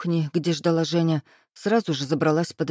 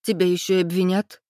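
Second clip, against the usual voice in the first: helplessly squeezed out. A narrator's reading. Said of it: "в бессилии выдавила Кристина".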